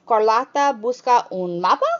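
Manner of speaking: "mapa" lifted as a question, rise at the end; rising question tune. Shown as a demonstration. Teacher demonstrating a spoken question rise. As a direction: let it climb into a question. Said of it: "you're giving that nonverbal cue".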